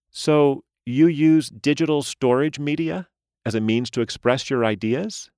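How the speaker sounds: high, bright doll voice; a chirpy toy speaking through a speaker; talking doll. A narrator's reading. Doll voice again.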